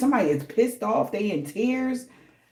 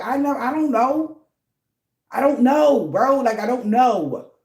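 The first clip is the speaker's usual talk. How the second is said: clueless crew member; 5 semitones higher, 4 dB louder than usual. Retold or imitated. Crew has no answers, quoted.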